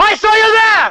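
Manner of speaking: very high, slow, drawn-out shouting. Showing the other person what real shouting sounds like: shouting. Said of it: "That's shouting".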